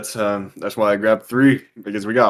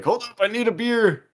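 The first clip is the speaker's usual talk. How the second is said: eager exclamation; 10 semitones higher than usual. Retold or imitated. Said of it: "'cause I was like".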